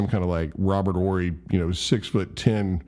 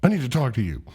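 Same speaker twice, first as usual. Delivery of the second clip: higher-pitched stern retold order; mad dad; 5 semitones higher, faster than usual. Dad holding son by the collar, mildly angry. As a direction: imitate a cross father collaring his boy. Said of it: "he's, like, mad at him".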